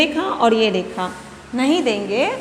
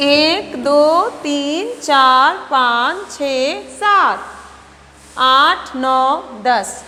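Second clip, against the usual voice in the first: slow, drawn-out count from one to ten; teacher counting slowly aloud for children; much slower than usual. Shown as a demonstration. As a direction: count each number slowly for the class. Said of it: "दस बार एक अक्षर को हम पढ़ेंगे".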